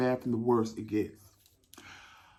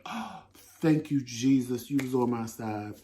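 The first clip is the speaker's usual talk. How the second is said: relieved thanks; 4 semitones lower than usual. Retold or imitated. Finds the bathroom, relieved.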